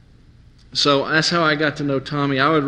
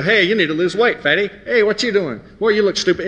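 mocking smart aleck; 4 semitones higher than usual. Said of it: "he talked real, real fast all the time".

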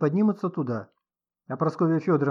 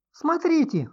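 high piercing shriek, louder; 5 dB louder, slower than usual. A narrator's reading. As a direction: shriek in sudden alarm. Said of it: "взвизгнула вдруг Инга". (визг испуганной женщины)

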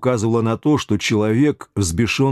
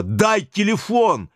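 much higher, slow, hoarse and rough cry; hoarse, rough, high-pitched yell for the phone; high hoarse shout; 11 semitones higher, much slower than usual. A narrator's reading. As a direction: rasp it out high and rude. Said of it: "выкрикнул Юра высоким голосом, очень хрипло и грубо".

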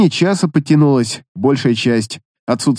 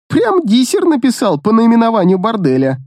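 smirking; 7 semitones higher than usual. A narrator's reading. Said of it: "хмыкнул Демос".

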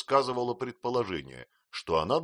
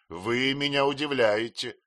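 stern; 4 semitones higher, 4 dB louder than usual. A narrator's reading. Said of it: "строго проговорил мистер Мордстон".

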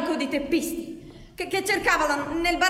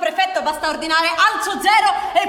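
mocking laugh; 3 semitones higher, 7 dB louder than usual. Mocking the commissioner's prefect.

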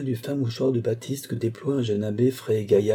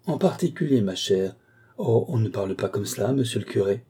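indignant echo. Acted. Housekeeper rebuking a visitor who asked for a private talk, mildly affronted. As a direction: reprove the caller for presuming. Echoes request, reproves the visitor.

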